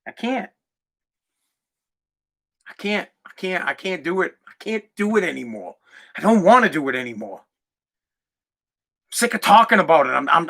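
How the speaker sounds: low, soft, drained voice; quiet, weary resignation after an outburst; defeated. Real, not acted. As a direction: give up, all the fight gone. Gives up, drained after rant.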